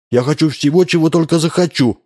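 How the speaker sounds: put-on high, insistent child's yell; spoiled boy shouting his wish; demanding shout. A narrator's reading. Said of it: "закричал Вова".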